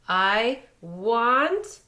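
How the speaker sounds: loud cry cut off mid-fall; scream while falling. A narrator's reading. Falling boy screams at his friends below. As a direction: yell as you drop from the tree. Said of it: "Sko screamed as he fell".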